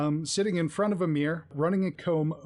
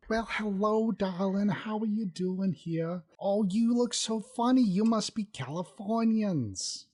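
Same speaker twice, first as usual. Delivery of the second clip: higher, sweetly fussing receptionist voice; a prim little office clerk cooing at strangers; mousy secretary; 5 semitones higher than usual. Acted. Mousy woman greets the visitors at her desk, sugary high voice. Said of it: "small mousy woman".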